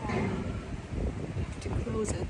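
slow frightened whisper; a slow, real scared whisper. Real, not acted. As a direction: breathe it out under your breath. Nervous about the dark.

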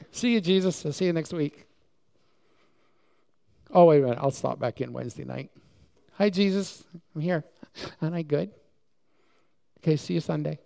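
mock the once-a-week believer, breezily; breezy churchgoer. Preacher mimicking a casual churchgoer waving Jesus off. Churchgoer leaving after Sunday service.

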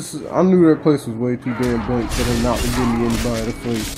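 normal talking voice

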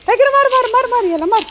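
high excited egging on. Real, not acted. Woman eggs her dog Tiger on against the calf, excited. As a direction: urge the dog on, high and eager.

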